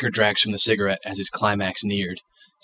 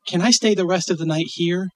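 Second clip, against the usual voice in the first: put-on child voice; 9 semitones higher than usual.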